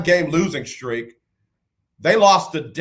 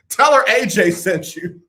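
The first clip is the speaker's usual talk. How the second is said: laughing; 4 semitones higher than usual. Real, not acted. Laughing while joking.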